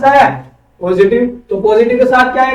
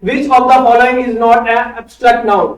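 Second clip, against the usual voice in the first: slow question read; much slower than usual. Shown as a demonstration. Teacher reads out quiz question.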